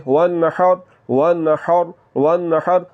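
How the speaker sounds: وَالنَّحْرِ with the ha from mid-throat; Quranic recitation. Shown as a demonstration. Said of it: "آپ نے ہا کی آواز کو نکالنا ہے".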